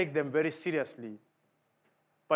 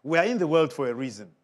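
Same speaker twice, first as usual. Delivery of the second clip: quicker, a bit firmer repeat; faster restatement; 4 dB louder, faster than usual. Shown as a demonstration. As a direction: drive it home quicker. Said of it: "repeated right after".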